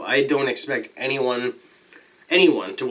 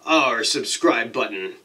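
slow ringside announcer build-up; wrestling announcer; slower than usual. Pretend. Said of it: "I'm saying it like a wrestling announcer".

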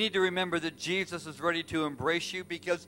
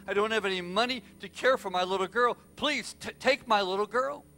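halting plea building to higher, urgent begging; pleading; 4 semitones higher than usual. Retold or imitated. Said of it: "he pleaded".

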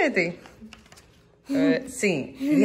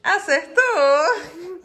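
excited; 5 semitones higher, much slower than usual. Real, not acted. Mother announcing a correct answer.

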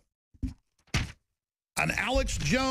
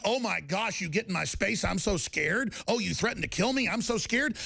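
mock fear; 2 semitones higher than usual. Mocks being scared of threat.

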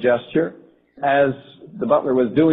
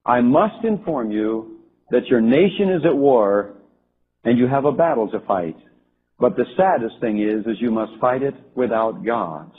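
grave warning; 4 semitones lower than usual. Retold or imitated. Prince delivers grave warning.

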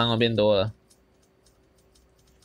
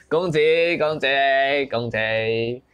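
battle cry; 2 semitones higher, slower than usual. Acted. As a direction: shout your troops forward. Yelling orders at troops.

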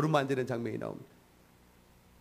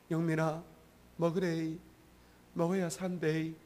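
Gyeongsang dialect; 3 semitones higher than usual. Retold or imitated. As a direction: gently coax him to eat in a mild Gyeongsang accent. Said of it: "경상도 말로".

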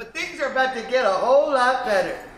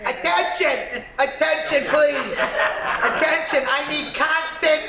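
calling out. Acted. Comic calling out crowd.

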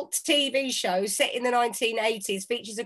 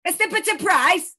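high, louder echo of the phrase; amused disbelief; 8 semitones higher, 6 dB louder than usual. Real, not acted. To husband, repeating his mangled saying in amused disbelief. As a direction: bounce it back, amused. Echoing the mock saying, surprised.

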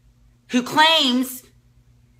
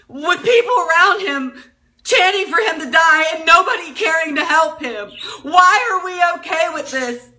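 higher, rising to a shout; anguished outrage; 5 semitones higher than usual. Real, not acted. Mother imagining her son hurt, anguished shout. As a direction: let the anger burst out at the end.

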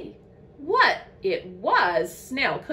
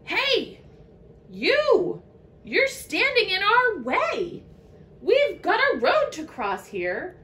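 high, loud troop of rowdy ants; rowdy yell; 7 semitones higher, 6 dB louder than usual. A narrator's reading. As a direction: yell it out like a bossy little crowd. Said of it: "yelled a troop of rowdy ants".

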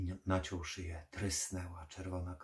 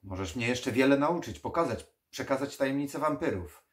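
loud, higher eager plea; urgent pleading; 6 semitones higher, 10 dB louder than usual. Acted. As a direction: beg him to teach you. Dragosani begs for secrets.

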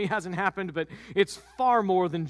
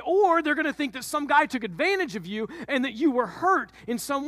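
worked-up Joseph; 5 semitones higher than usual. Acted. Joseph ranting about the shame.

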